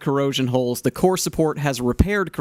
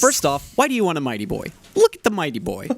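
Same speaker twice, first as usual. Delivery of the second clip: light pitch-man sell; infomercial guy. Pretend. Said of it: "you sound like an infomercial guy".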